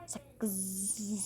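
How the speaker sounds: glitchy electrocuted machine voice; half robot voice. Real, not acted. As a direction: sound like a buzzing robot. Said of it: "Sound like I'm electrocuted or something".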